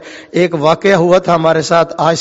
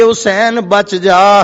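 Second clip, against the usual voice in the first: drawn-out warning; 3 semitones higher, much slower than usual. Acted.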